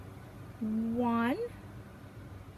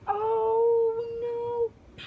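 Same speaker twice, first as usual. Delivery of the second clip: high, louder cried-out oh no and pop; dismayed oh no; 8 semitones higher, 6 dB louder than usual. Acted. Reader acts out the last popped button, loud dismay. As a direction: wail it as the last button flies.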